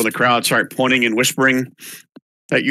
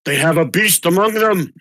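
alarmist blowhard; 4 semitones higher than usual. Acted. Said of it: "The other one, the Blowhards".

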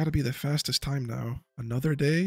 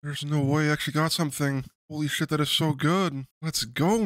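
ecstatic shouting; 4 semitones higher than usual. Real, not acted. Gamer screams at his long-awaited rare drop, overjoyed shouting. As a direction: yell it like you finally won the lottery.

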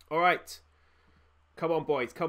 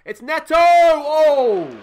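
sudden high yell as the shot goes in; excited shout; 10 semitones higher, 15 dB louder, much slower than usual. Real, not acted. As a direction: shout it like a fan on his feet. Shot saved, loud reaction.

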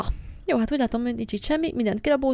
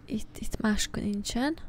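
whisper; 6 dB quieter, slower than usual. Real, not acted. Sneaking through the house.

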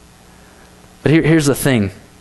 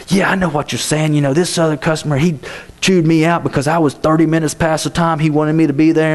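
mild re-enacted rant, slightly raised pitch; retold ranting; 4 semitones higher than usual. Worker jumping in with his own customer story, mild retold rant. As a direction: jump in with a mildly worked-up complaint. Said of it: "I'm starting to rant and rave".

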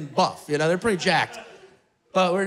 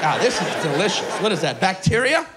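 mock rapture over kombucha; 4 semitones lower than usual. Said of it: "It's like".

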